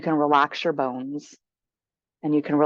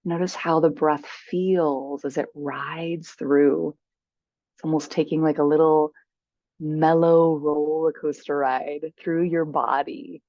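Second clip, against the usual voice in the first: guided meditation. Acted. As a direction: guide them gently into stillness, unhurried.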